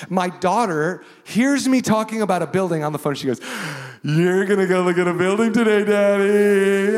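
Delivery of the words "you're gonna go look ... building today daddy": a light imitation of an eager child, higher; little daughter's voice. Pastor imitating his daughter asking about the building, eager and higher. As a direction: mimic his daughter, lifted and a bit louder.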